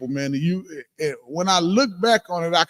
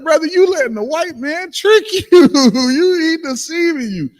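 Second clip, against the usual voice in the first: earnest plea; 11 semitones higher, 4 dB louder than usual. Retold or imitated. Pleading with coworker about deception.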